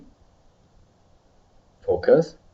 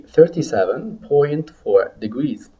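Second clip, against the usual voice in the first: slow, measured reading of "thirty-seven point four degrees"; slow repeat model; 3 semitones higher, slower than usual. Shown as a demonstration. Teacher models a temperature for students to repeat, slowly. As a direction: space out each part for learners to copy. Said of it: "listen to me and repeat".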